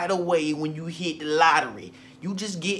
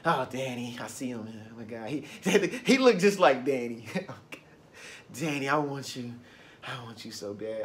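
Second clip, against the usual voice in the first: put-on lovestruck girl; 6 semitones lower than usual. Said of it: "some of y'all wanna manifest a new man".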